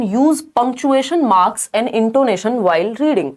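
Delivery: slow, careful option read; reading the option aloud. Shown as a demonstration. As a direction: read it out word by word. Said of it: "D option". (धीमे से विकल्प पढ़ना)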